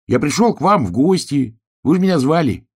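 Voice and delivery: a hare shouting to be heard. A narrator's reading. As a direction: keep yelling the welcome. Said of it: "— закричал заяц".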